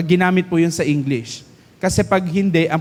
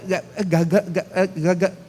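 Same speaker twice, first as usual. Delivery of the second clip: stuttering demo with a laugh; mock stammer; 4 dB quieter than usual. Shown as a demonstration. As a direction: stammer it out on purpose, half laughing. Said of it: "hindi uutal-utal". (kunwaring pautal-utal na pagsasalita)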